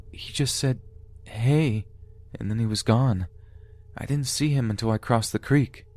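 put-on high-pitched young narrator answering grandpa; child's voice. A narrator's reading. Child answers grandfather's question in story.

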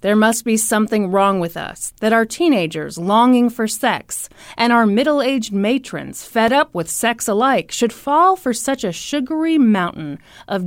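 measured, emphatic reading aloud; deliberate recital with punched adjectives; dramatic column reading. A narrator's reading. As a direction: read out a scathing column, savouring each insult. Reads newspaper column aloud.

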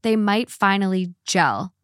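measured, even first-person narration; reading a post aloud. A narrator's reading. Host reads listeners a man's post about his wife's birth plans, measured narration.

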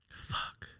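very soft, voiceless swear; real grieving curse. Real, not acted. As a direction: curse under your breath in grief. Grieving while recounting the death.

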